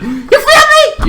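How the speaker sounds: very high, slow, laughing question; laughing aside. Real, not acted. To the viewers, rushing the recap, laughing. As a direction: tease the audience with a laugh. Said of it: "playful aside to viewers".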